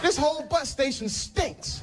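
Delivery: high, slow, disgusted; a touch of disgust at the smelly bus station. Retold or imitated. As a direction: recoil at the stink.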